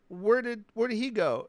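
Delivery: put-on bewildered girl. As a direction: play her lost and pleading. Retelling the bewildered girl's question.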